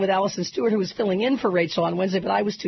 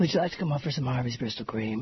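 hoarse sick voice; 8 semitones lower, 5 dB quieter than usual. Real, not acted. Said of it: "Oh, maybe I can just talk".

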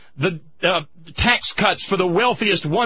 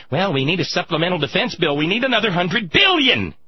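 fast, lower mocking voice; mock officials; 5 semitones lower, faster than usual. Host mocking officials begging Congress, mock pleading. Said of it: "run to the Congress and say".

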